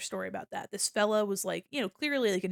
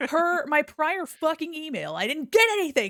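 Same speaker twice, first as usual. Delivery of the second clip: loud, exasperated mock email rant; mock angry complaint; 6 semitones higher, 6 dB louder than usual. Complaining to the delivery app, loud and mock furious. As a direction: rant like an outraged customer.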